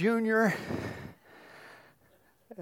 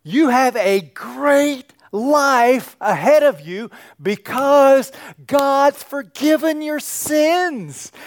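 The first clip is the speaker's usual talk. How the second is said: higher, louder, slow announcing of good news; joyful worship leader; 8 semitones higher, 6 dB louder, slower than usual. Acted. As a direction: proclaim it to the crowd with delight. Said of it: "this is the worship leader telling you".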